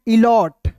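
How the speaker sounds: इलॉट said as "i-lot", short o; teacher gives the right reading of इलॉट; correct reading. Shown as a demonstration. Teacher shows students how to say इलॉट. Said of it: "इलीट नहीं पढ़ेंगे".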